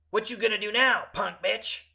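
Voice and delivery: loud, high street taunt. Retold or imitated. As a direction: call out a jeering challenge. Retold taunt from man behind.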